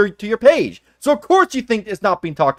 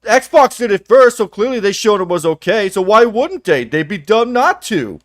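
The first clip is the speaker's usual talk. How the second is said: mock fanboy excuse; 3 semitones higher, slower than usual. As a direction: parody a smug console defender.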